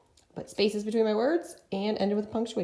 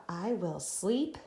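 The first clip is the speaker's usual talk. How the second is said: slow sentence dictation; much slower than usual. Shown as a demonstration. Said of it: "Let's write this together".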